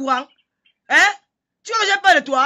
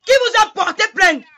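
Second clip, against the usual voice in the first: angry challenge; 4 semitones higher than usual. Real, not acted. Challenging a rival on a live video, indignant shout. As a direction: demand it, outraged, pitched up. Mocking rival, repeated louder.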